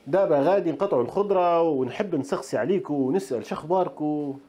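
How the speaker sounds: a light try at Moroccan Darija, her voice barely changed; Moroccan dialect attempt. Shown as a demonstration. Cook trying Moroccan Arabic on her viewers, lightly done. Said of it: "عم بحكي لي مغربي صحيح يا جماعه".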